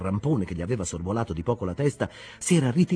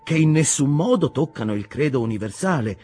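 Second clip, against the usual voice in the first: higher, louder impassioned preaching; fervent sermon; 8 semitones higher, 5 dB louder than usual. Acted. Ishmael preaching to the captains, fervent. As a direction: preach it with conviction.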